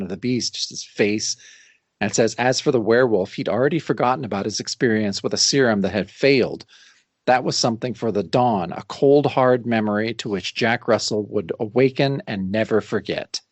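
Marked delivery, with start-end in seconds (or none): 2.4-13.4 low-pitched dramatic read-aloud; measured, lower storytelling voice; comic caption narration. A narrator's reading. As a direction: close the tale like a narrator, sinking at the end. Reads the closing comic caption aloud.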